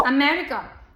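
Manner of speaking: अमेरिका with weak 'uh' at both ends; flat A sounds. Shown as a demonstration. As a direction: keep first and last vowels of अमेरिका neutral. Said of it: "ए की आवाज बिल्कुल flat आ आती है". (अमेरिका में दोनों तरफ हल्का 'अ')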